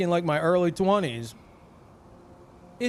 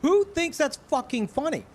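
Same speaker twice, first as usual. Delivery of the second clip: exasperated rant; 11 semitones higher than usual. Retold or imitated. Streamer retelling his reaction to the ad, high outraged rant. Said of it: "And I'm like".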